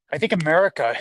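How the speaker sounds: winded from walking uphill; puffing a little between words; out of breath. Real, not acted. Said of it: "I'm a little winded 'cause we just walk uphill".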